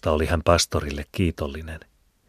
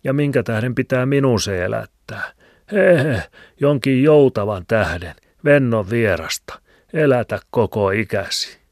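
put-on higher, louder grumbling old man; old man's voice; 6 semitones higher, 6 dB louder than usual. A narrator's reading. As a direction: grumble it like a stubborn old villager. (vanhan miehen ääni)

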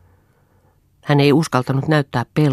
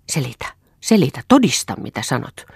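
restrained acted shout; insistent, slightly raised voice; 2 semitones higher, 4 dB louder than usual. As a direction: demand proof in a mild shout. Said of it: "huusi Eero".

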